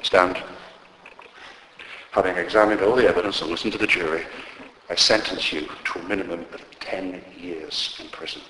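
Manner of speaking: lightly voiced judge, sober and measured; a hint of a solemn courtroom judge; judge passing sentence. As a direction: hand down the sentence quietly, falling low at the end. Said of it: "and the judge said".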